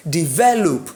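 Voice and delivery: "Develop" with the stress on ve; stress on second syllable. Shown as a demonstration. Teacher shows where stress falls, stress on ve in "Develop". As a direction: say "Develop" leaning on the middle syllable, ve. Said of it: "the stress remains on that syllable, which is what? Ve".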